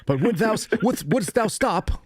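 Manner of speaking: high, slow, archaic plea; old-fashioned Quaker. Retold or imitated. A Quaker begging bullies to stop, high, slow and old-fashioned. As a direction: draw out the thee-and-thou like a quaint Quaker.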